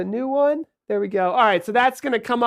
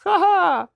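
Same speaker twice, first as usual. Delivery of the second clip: fake laugh; 8 semitones higher than usual. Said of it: "We're supposed to play laughing sounds after that".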